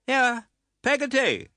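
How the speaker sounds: high, slow call through the door. A narrator's reading. Aunt calling the servant from the door, high and slow. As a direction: summon the servant sharply. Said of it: "cried Miss Betsy".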